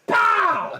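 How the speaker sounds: very high, loud "pow"; imitated blow, shouted hard; explosive impact noise. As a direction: yell the punch sound effect.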